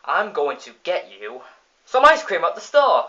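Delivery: sing-song mom rising on the store; Marge voice. Retold or imitated. Mom teasing Bart with a fake ice cream promise, hammed-up. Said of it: "Marge is like".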